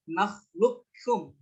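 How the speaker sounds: nakhluqukum with qaf merged straight into kaf; full idgham. Shown as a demonstration. Teacher demonstrates idgham kamil, nakhluqukum straight onto kaf. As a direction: say nakhluqukum, doubling the k, no q heard. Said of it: "mubasyarah langsung ke kafnya".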